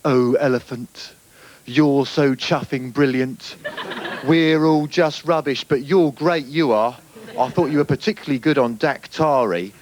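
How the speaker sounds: slow, gushing mock poetry; gushing poem parody. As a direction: overdo the adoring praise, slowly. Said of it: "no doubt it goes".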